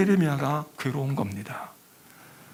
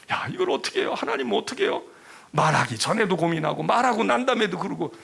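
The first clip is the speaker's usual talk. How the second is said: anguished cry; 4 semitones higher than usual. Retold or imitated. Jeremiah tossing at night, crying out.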